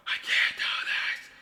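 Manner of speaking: slow, whiny whispered despair, on the edge of crying; whimpering whisper. Real, not acted. Painter despairing over the painting, slow whimpering whisper. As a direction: whisper it as if about to cry.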